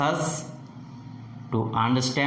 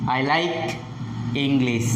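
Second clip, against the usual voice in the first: "like" rises, then "English" falls at the end; falling tone. Shown as a demonstration. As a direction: let the pitch drop through "English". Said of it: "falls at the end".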